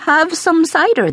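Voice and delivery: high, worried offer; trembling with worry. A narrator's reading. Pasqua offering cider to the aldermaston, trembling with worry. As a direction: offer it anxiously, pitched high. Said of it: "her voice trembling with worry".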